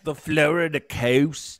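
news anchor voice. Retold or imitated. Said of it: "news reporter anchor voice".

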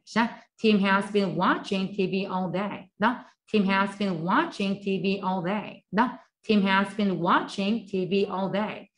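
천천히 한 단어씩 따라 하게 읽기; 학생들이 따라 하도록 또렷하게; 또박또박 시범 낭독. Shown as a demonstration. Repetition drill. (따라 하기용 느린 시범 낭독)

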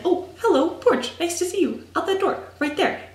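high, loud, hammed-up hello to a porch; mock greeting. Showing Rachel the porch, greeting it in a high mock-cheerful voice. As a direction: greet the porch like an old friend, overdone.

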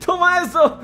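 high-pitched, gleeful battle taunts; euphoric taunting. Real, not acted. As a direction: taunt the enemy, high and giddy with laughs. Taunting the boss while firing. (provocación eufórica, aguda y entre risas)

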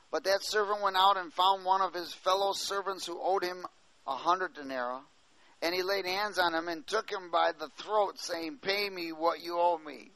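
carried reading voice rising and falling; scripture reading. Acted. Preacher reading the parable to the church, steady reading voice. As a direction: tell the parable through the text.

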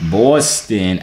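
put-on drawn-out "Boston" in a Boston accent; imitated Boston accent; mock Boston accent. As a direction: echo "Boston" with a local Boston vowel. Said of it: "doesn't have an accent until they say Boston".

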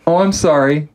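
high, sneering mock bandmate, slowing at the end; sarcastic mock punk bandleader. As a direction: parody a preachy punk band boss. Mocking band firing member.

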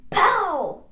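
loud, high comic-book "pow"; shouted impact noise. Acted. Reading out a comic-book hit, shouted impact noise. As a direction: punch it out with a falling pitch.

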